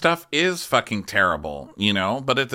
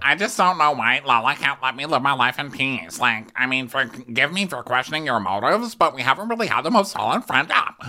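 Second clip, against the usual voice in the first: lightly higher whiny imitation of Sheena; mock Sheena voice; 4 semitones higher than usual. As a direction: play her as wounded and put-upon. Mocking Sheena's complaint in recap.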